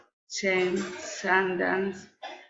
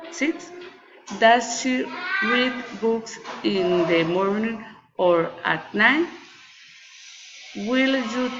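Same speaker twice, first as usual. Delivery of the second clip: measured choice questions with lifts on "six" and "night"; rising and falling intonation. Shown as a demonstration. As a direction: pitch moves up and down across the choices either side of "or". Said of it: "rising and failing intonation".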